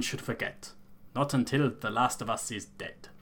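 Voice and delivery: Elder in a lightly put-on rustic accent; solemn clan elder in a hammed-up accent; a hint of a bad fantasy accent. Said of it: "in this fucking accent I'm going for".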